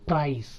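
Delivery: ప్రైస్ as "prah-is"; diphthong glide. Shown as a demonstration. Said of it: "ఐ అని పలకాలి".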